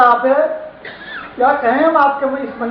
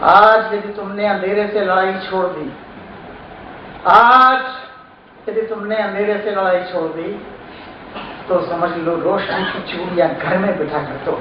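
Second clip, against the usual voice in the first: poem recitation; 2 semitones lower than usual. Acted. Poet warns against quitting the fight with darkness, measured recitation. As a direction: declaim with weighty pauses between phrases.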